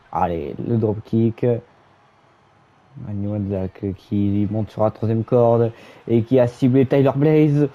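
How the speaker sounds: live play-by-play call; wrestling commentator. Acted. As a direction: narrate the match as it happens.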